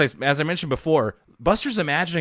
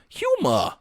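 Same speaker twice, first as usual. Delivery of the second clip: Boston HUMOR ending in an open "ah"; Boston accent. Retold or imitated. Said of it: "he had a Boston accent".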